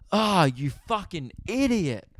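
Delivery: drawn-out mock yell at the idiot; mild exasperated shout; retold yell. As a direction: call him an idiot, slow and half-shouted. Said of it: "And I yell".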